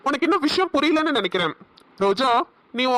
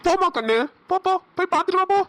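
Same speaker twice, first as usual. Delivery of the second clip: mock sweet; 7 semitones higher than usual. Villain sends her off mockingly.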